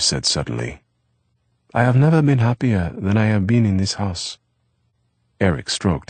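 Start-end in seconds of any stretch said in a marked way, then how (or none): 1.7-4.4 lightly voiced young French boy, higher; Eve's voice. A narrator's reading. Eve to Eric about dinner, lightly voiced boy. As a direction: Eve brightly telling Eric the plans.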